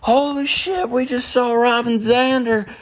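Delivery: high, fast and thrilled; fired up. Retold or imitated. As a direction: gush like a starstruck fan. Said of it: "we're just fired up".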